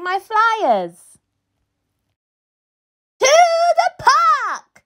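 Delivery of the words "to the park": high, ringing call to the park; rally everyone with a shout; yelled rallying cry. Acted. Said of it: "I yell at the top of my lungs".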